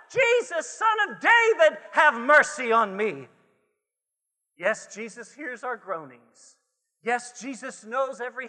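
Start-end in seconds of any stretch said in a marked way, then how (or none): 0.1-3.3 high, loud shout for mercy; crying out. Acted. Preacher as blind Bartimaeus calling to Jesus, crying out. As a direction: call out urgently, the pitch falling at the end. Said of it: "He cried out with a shout".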